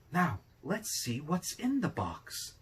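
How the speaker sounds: put-on cheerful old man. A narrator's reading. Old man placates his wife.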